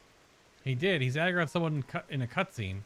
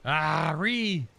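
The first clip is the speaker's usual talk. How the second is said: dismayed shout; 4 dB louder, slower than usual. Real, not acted. Dismay at monster aggro.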